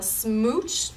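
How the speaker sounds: slow, loud, stretched smooch; drawn-out smooch. Acted. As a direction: savor the smooch slowly. Kiss refrain.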